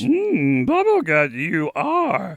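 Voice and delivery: slow puppet voice, a bit Grover-like; hum, then slowly play the wise puppet; Yoda. Acted. Co-host attempting Yoda, slow puppet voice. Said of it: "You sound like a bu-, like, like Grover".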